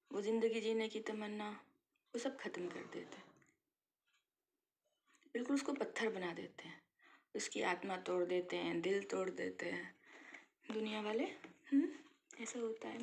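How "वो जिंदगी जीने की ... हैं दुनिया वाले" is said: whispered, heavy with sadness; whispered grief over broken spirits; sorrowful whisper. Real, not acted. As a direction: let it sink into a hush. Describing women's spirit being crushed.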